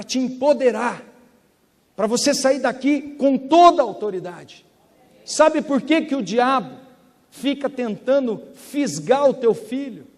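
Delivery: loud, rising preacher's exhortation, pitch climbing; full-force preaching. Acted. Pastor urging his congregation, preaching at full force. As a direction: stir the church up to claim their authority.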